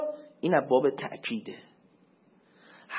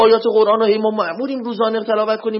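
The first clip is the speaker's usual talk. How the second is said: ordinary talk, nothing marked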